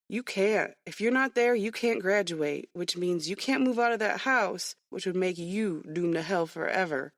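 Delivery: firm lecture hitting can't; insistent. Acted. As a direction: press each can't hard. Boy lectures her firmly.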